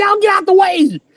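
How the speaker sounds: mock screamed, high-pitched yell. Retelling yelling at the blockers during a play: retelling own screaming. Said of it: "I was screaming at the other guys".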